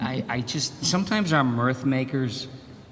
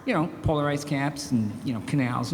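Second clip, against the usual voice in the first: Leno impression. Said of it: "He'll go".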